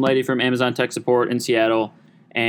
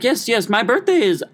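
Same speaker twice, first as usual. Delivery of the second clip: much higher, gushing put-on lady voice; mock older lady; 10 semitones higher than usual. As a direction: gush like a sweet older lady on the phone. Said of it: "she was like".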